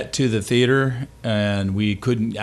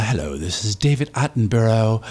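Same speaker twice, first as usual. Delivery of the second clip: lightly put-on narrator voice; sample a nature-documentary voiceover; a hint of wildlife narrator; David Attenborough. Shown as a demonstration. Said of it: "can we get a sample of your voiceover voice".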